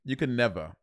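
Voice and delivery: lightly put-on New York accent; New York talk. Co-host teasing the other with mock New York talk. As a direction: lay on some New York slang and vowels. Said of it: "you do your New York talk".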